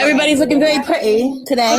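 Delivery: lightly put-on British accent. Sister greeting the stream as Jack, amateur British accent. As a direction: try out a playful British accent. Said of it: "trying to imitate Jack".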